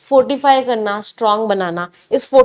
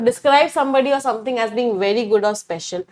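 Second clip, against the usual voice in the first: slow dictation; much slower than usual. Shown as a demonstration. Teacher dictating English definition.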